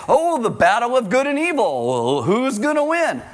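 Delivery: lightly hammed-up epic trailer tone; a hint of a dramatic movie narrator; mild mock cinematic suspense; mock Hollywood drama. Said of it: "Hollywood does not reflect this".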